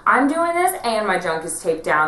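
slow, high, loud diva complaint; sassy put-upon drag queen, drawn out. Retold or imitated. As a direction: ham up a grumpy drag queen. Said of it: "she was like".

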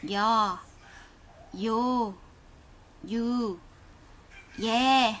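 each vowel sounded slowly, clearly, one by one; reading Korean vowels aloud. Shown as a demonstration. Teacher modelling vowels for students to repeat, slow and clear. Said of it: "Bây giờ chúng ta sẽ cùng nhau đọc qua này".

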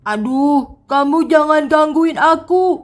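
drawn-out, complaining worm king; suffering worm king. Acted. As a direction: whine about the heat, stretching some words. Worm king seeks sea water. (raja cacing mengeluh kepanasan)

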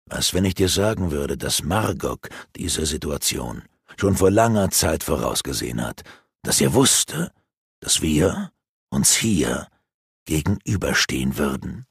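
low, hushed villain relishing his secret; scheming sorcerer. Acted. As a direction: savour every word like a villain confiding his plot. Rurak's villain voice.

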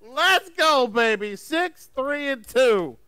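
high, loud victory whoop; excited cheer. Real, not acted. Contestant cheering his winning dice roll, excited. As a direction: celebrate the roll, pitch climbing.

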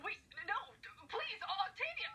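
desperate call. Acted. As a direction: call out as she leaves, pleading. Calling after departing friend.

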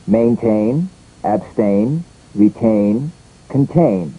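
main-TAIN, ab-STAIN, re-TAIN, con-TAIN, rising like a list until the last; stressed ending. Shown as a demonstration. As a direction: stress the last syllable of Maintain, abstain, retain, contain. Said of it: "it's a stressed ending".

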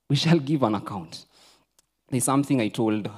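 ordinary delivery

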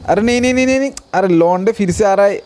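high-pitched panicky protest; sudden high burst of repeated alarm. Real, not acted. Dinosaurs coming back toward the base.

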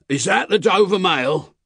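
high, loud call across a distance; calling from the mist. A narrator's reading. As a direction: hail the coach from afar. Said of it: "a man's voice called from the mist".

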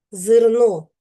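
"зерно" with the е leaning towards и; "зерно", first vowel reduced towards и; unstressed е towards и. Shown as a demonstration. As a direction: say "зерно" close to "зирно", stress on the о. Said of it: "вимовляємо з наближенням до и".

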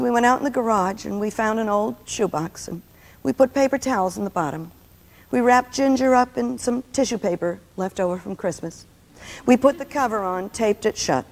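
put-on solemn, step-by-step child's funeral report; understated mock-mournful tale, dying away at the end; melancholy retelling. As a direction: lightly imitate a gloomy little boy, pausing between steps. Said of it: "he told this all so melancholy".

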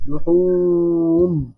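slow لحوم as "lu-ḥuuuum"; long damma. Shown as a demonstration. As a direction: hold the oo in لحوم. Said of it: "أديها ضمة طويلة".

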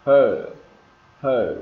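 long "er" in "her"; emphatic, drawn-out "her"; R-coloured vowel. Shown as a demonstration. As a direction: let "her" fall on a curled R. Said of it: "ơ, nghe hơi ờ một tí".

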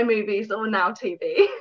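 news reporter voice. Real, not acted. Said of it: "Why am I talking like a news reporter?".

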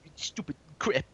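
whispered under the breath. Pretend. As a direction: hush it out as a secret.

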